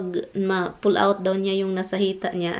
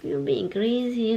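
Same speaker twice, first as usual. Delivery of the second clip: put-on like talking to a child; slower than usual. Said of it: "parang bata ba?".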